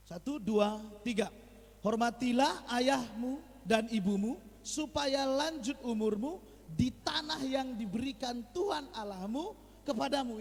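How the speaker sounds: slow, loud unison verse reading; group reading aloud. Real, not acted. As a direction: read the verse together, slowly. Congregation reads verse together.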